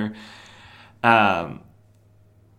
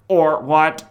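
mock challenge; 6 semitones higher, 9 dB louder than usual. Retold challenge in comic dialogue.

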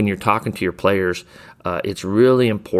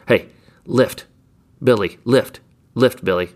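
a bit higher, brisk call to a player; sideline cue to shooter; 3 semitones higher than usual. Shown as a demonstration. Coach calling out to his shooter Billy, brisk cue. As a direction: call it out to your shooter quickly. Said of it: "And that's all you gotta say".

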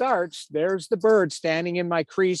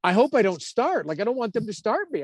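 mildly anxious, higher-pitched plea; retold anxious praying; 6 semitones higher than usual. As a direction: replay a nervous silent prayer, pitched up. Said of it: "I'm, I'm praying".

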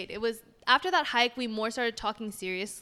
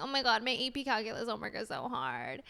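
softer mock whine about homework; whining; 5 dB quieter than usual. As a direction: whine it quietly, imitating your own complaint.

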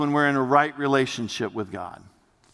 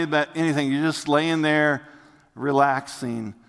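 guided imagery. Acted. Vacation imagery guided in sermon.

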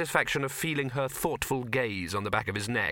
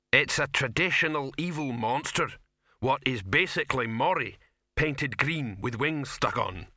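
easygoing troll explaining, drawing out the last words; lightly voiced friendly troll; 2 semitones higher than usual.

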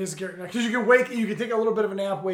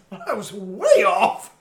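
slow deadpan; 4 dB louder, much slower than usual. Retold or imitated. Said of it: "and he's".

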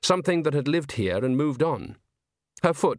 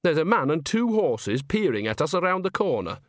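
lightly voiced witch, pitched higher; Nanny, observant; 5 semitones higher than usual. Nanny tells Esme of the peering coachman, mildly puzzled. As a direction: point it out with a touch of puzzlement.

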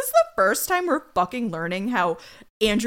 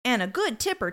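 lightly voiced gushing doorman; 3 semitones higher than usual.

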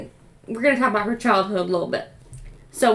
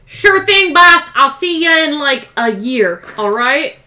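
dim henchman; 4 semitones higher, 7 dB louder than usual. Pretend. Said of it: "Talking like Sid the Sloth".

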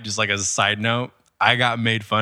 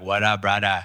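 Hawaiian local greeting. Retold or imitated. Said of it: "they're like".

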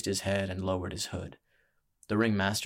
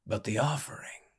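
teasing showman's question, lightly voiced; crowing ringmaster; 3 semitones higher, 3 dB quieter than usual. A narrator's reading. Ringmaster asks the crowd for the offering, mild crowing. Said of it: "the ringmaster began his silly crowing".

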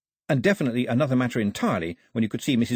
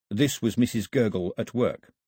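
ordinary delivery

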